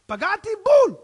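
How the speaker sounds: high, loud exultation; triumphant cry. Acted. Preacher happy when people get annoyed, triumphant cry. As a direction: crow it like a bullseye. Delight at hitting the mark.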